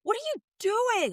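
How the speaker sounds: put-on high, childlike call; imitating Chris. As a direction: mimic a small boy asking. Kid calling out from back seat.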